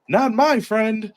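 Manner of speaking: protective warning. Retold or imitated. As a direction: draw it out, defending a friend. Bucks rushing to save Kenny.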